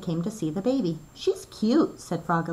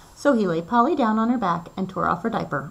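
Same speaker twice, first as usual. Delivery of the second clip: ordinary delivery, nothing marked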